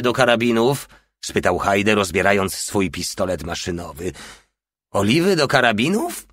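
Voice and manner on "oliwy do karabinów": high, rising incredulous question; scornful echo. A narrator's reading. Porta echoing Hajde's request, scornfully. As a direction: throw the question back with mild contempt. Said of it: "powtórzył Porta z pogardliwym grymasem".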